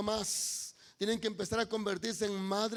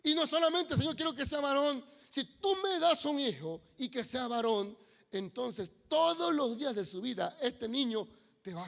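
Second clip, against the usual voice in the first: fervent prayer; 4 semitones higher, 4 dB louder than usual. Acted.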